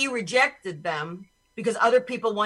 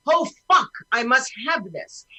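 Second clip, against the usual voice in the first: mock panic; 4 dB louder than usual. Imitating someone who overreacts to a sneeze, mock panic. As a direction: act out a panicked overreaction, loudest on the first words. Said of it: "I'm not, like, panicking going".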